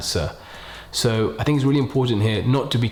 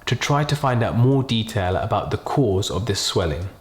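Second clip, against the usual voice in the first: slow, gentle, quiet delivery with pauses; doctor bad news. Shown as a demonstration. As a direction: break bad news softly and slowly. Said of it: "the main aim here is to be really slow, kind of really use a quiet tone".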